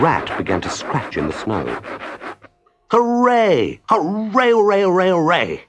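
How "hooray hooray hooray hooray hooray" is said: high, loud joyful hooray; cheering. Acted. Rat finds the door scraper, high loud cheering. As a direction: crow with delight at the find. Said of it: "he cried".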